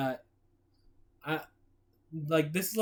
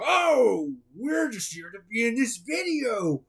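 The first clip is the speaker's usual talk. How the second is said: Wario voice. Acted. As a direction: yell the cover story. Villain answers shouting.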